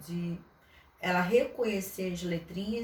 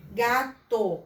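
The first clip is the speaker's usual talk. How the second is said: Gato called out louder; slightly louder example word; teacher's example word; 5 dB louder than usual. Shown as a demonstration. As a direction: announce Gato as the model word. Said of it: "quando a gente fala".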